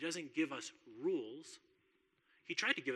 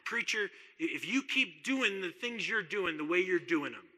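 put-on loud, higher Farmington accent, a gruff oil man laying down terms; 5 semitones higher, 11 dB louder than usual. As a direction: play the gruff Farmington elder warning his preacher. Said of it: "I don't do a Farmington accent very well".

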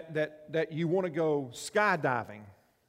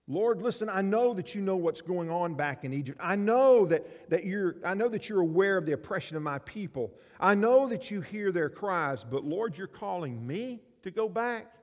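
high, loud pleading Moses; loud anxious plea to the Lord; 4 semitones higher, 6 dB louder than usual. Acted. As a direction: beg God to send someone else. Preacher acting Moses pleading with God.

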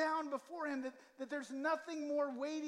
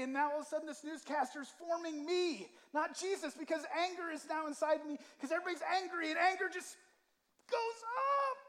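climbing higher and louder until the peak on goes up; building intensity; 5 semitones higher, 5 dB louder than usual. Real, not acted. Preacher warning his church about media anger, rising to a high, loud peak. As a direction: let the anger rise with the words, ending high.

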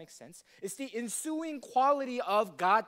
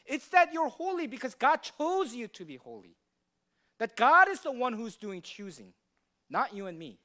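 emphatic preaching; 3 semitones higher, 5 dB louder than usual. Acted. Preacher driving home the point.

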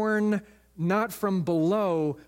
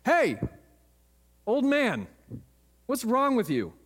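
shout; 6 semitones higher than usual. Retold or imitated. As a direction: call out sharply to the old man. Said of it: "and he shouted".

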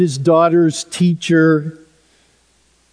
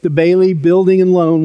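sarcastic. Retold or imitated. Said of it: "famously and sarcastically says".

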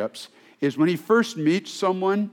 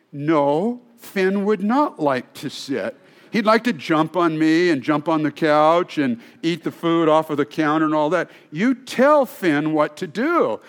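firm trainer. Retold or imitated. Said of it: "We need that strong voice".

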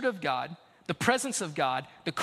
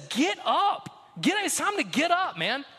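voicing Jesus; 6 semitones higher than usual. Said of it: "Jesus says".

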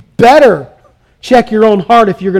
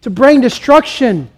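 tearful lament; 4 semitones higher than usual. Acted. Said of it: "With tears in their eyes".

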